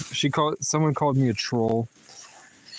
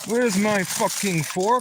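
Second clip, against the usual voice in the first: higher, slow, drawn-out complaint; exasperated; 6 semitones higher, slower than usual. Real, not acted. Searching the bag for a fork, exasperated. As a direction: whine at the missing fork.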